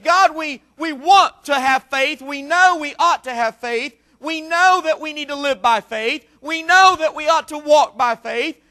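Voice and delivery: fervent, insistent appeal to God; preached plea. Acted. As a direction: plead from the pulpit, stretching key words.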